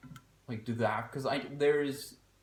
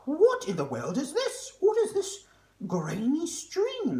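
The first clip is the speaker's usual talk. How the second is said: mock British accent; 8 dB louder, slower than usual. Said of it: "It's not a British accent".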